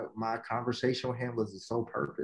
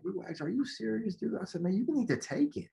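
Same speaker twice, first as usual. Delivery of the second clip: exasperated coach pleading, pitched higher; frustrated; 4 semitones higher than usual. Retold or imitated. Coach urging his player to take the offer, frustrated. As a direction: push him hard, fed up and urgent. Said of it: "And, you know, I'm frustrated".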